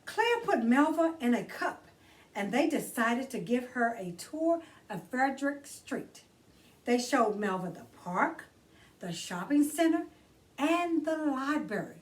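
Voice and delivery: put-on bright read-aloud for children; gentle children's book narration; storybook reading. A narrator's reading. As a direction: read it like story time for kids. Reads picture book aloud.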